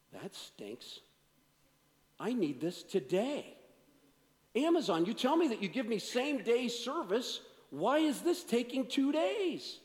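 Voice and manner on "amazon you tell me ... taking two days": hammed-up complaint to Amazon, rising higher, slowing at the end; mock upset. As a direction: playfully scold the phone. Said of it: "And I got upset with Amazon".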